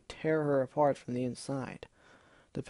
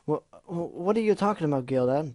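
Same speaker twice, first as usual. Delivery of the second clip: nervous stammer; 3 semitones higher, 3 dB louder than usual. Acted. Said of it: "trying to brush aside the issue".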